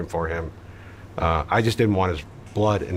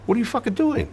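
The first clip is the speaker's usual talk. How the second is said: angry snap. Retold or imitated. Yelling at scared accomplice.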